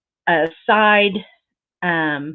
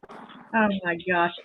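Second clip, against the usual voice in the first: softer, slow, breathless oh my gosh; hushed awe at the gift; awed hush; 8 dB quieter, slower than usual. Real, not acted. Opening a gift.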